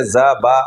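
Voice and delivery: "زا با" split into two syllables; syllable demo. Shown as a demonstration. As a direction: sound out "زا با", each syllable separately. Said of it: "بے کے تلفظ پہ آتی ہے". ("زا با" الگ الگ ہجوں میں)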